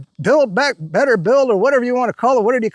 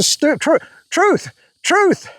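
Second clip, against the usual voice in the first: rising repeat; 6 semitones higher, much slower than usual. Real, not acted. Stumbles then repeats word.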